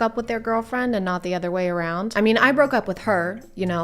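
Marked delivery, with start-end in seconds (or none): 2.2-3.8 mock seventh grader. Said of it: "someone in seventh grade trying to convince me".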